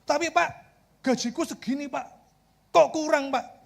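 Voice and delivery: whiny little protest about pay; mock grumbling. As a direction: grumble up high, pleading with the boss. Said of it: "nggak ngomel-ngomel".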